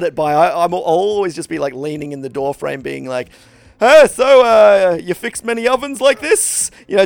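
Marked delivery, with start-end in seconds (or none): 3.8-6.7 chirpy small talk. Retold or imitated. Mock chatty small talk to tradesman.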